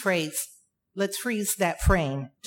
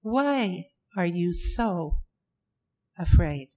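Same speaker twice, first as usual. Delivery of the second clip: slow, with "Why" leaned on and "afraid?" dropped; "Why" as the key word, spoken slowly; stress on why; 2 semitones lower than usual. Shown as a demonstration. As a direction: draw out "Why are you so" and land hard on "afraid?". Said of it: "The key word there is why".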